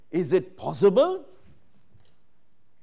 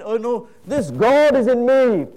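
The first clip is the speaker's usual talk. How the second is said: awed exclamation; 4 semitones higher, 9 dB louder than usual. Real, not acted. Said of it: "awed at God within".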